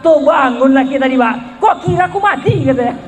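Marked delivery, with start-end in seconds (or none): 1.6-2.6 higher, fast angry outburst; indignant shout. Retold or imitated. Husband woken by the prayer shouts angrily at his wife.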